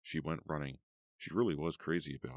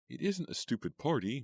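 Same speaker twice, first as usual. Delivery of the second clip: insisting; 9 semitones higher than usual. A narrator's reading. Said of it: "Meg insisted".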